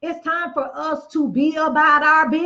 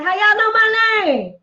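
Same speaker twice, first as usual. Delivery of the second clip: high, slow, loud mock ghetto question; mock hood and ghetto; 9 semitones higher, 3 dB louder than usual. To the dealership staff, a hammed-up loud hood voice. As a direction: play the brash customer she refuses to be. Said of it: "I'm not gonna be hood and ghetto and say".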